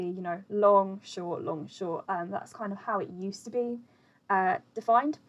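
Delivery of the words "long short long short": steady seesaw of "long" and "short"; long-short rhythm. Shown as a demonstration. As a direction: alternate a drawn "long" with a brief "short". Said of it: "Alternatively, that can be".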